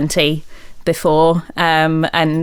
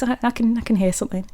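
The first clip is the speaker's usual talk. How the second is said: hushed voice; 3 semitones higher, 6 dB quieter, much faster than usual. Retold or imitated. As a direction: say it softly, listening. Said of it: "And he goes".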